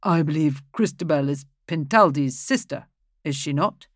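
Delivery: reasonably. Acted.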